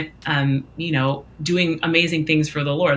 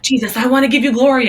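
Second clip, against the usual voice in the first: high, loud, quick re-enacted plea; eager offer; 8 semitones higher, 6 dB louder, faster than usual. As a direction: act out an overeager volunteer. Acting own eager plea to Jesus.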